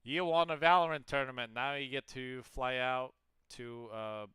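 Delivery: loud, high hype announcement; excited announcer. Retold or imitated. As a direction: sell the prize like a game show host. Mock prize announcement to winners.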